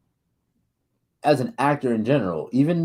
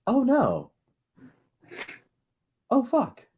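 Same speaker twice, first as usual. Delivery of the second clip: mock dread; 11 semitones higher, slower than usual. Boss hearing his son crossed John Wick, mock dread. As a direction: breathe out the fear, understated. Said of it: "the sheer fear in his voice".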